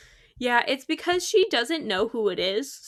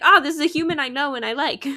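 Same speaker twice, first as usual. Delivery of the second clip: higher, louder voice for the dog; dog's voice; 4 semitones higher, 6 dB louder, faster than usual. Acted. Streamer speaks as her dog recognizing her, lightly raised voice. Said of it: "'Cause she's like".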